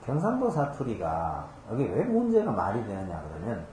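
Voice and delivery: normal talking voice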